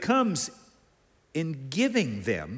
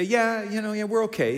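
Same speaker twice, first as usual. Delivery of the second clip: put-on teens' noncommittal answer; 5 semitones higher than usual. Teenagers' noncommittal answer voiced.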